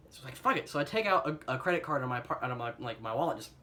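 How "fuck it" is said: exasperated resignation. Retold or imitated. Giving up, resolved.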